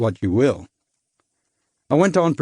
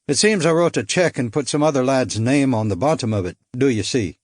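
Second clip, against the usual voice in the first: Irish lilt. Acted. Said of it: "I couldn't place his accent".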